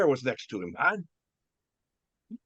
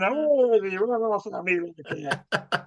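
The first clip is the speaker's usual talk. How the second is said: retold drunken rant, pitched higher; mock yelling; 5 semitones higher, slower than usual. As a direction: act out yelling without full volume. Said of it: "I'm all yelling".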